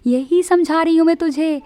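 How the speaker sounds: a short laugh, then words still amused; light laugh. Acted. Neelima laughs gently while explaining to her friend. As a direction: chuckle before explaining to a friend. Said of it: "Nilima मुस्कुराती है".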